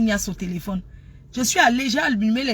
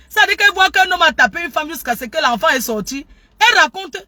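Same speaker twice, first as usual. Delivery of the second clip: high, loud, heated tirade; angry rant demo; 7 semitones higher, 7 dB louder than usual. Shown as a demonstration. Showing viewers someone angry at an accuser, loud high rant. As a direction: rail loudly with a mocking laugh. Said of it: "une personne qui est énervée contre quelqu'un".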